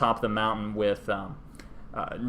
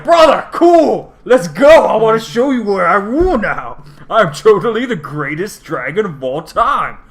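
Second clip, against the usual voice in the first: much higher, loud giddy squeal; gushing excited dragon; 9 semitones higher, 13 dB louder than usual. Retold or imitated. Nicol Bolas greeting his brother, giddy high squeals. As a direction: squeal it like an overexcited kid.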